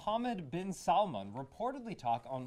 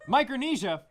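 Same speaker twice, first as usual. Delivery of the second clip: rally speech; 5 semitones higher, 7 dB louder than usual. Acted. Hosts hyping Micronesia like slogans.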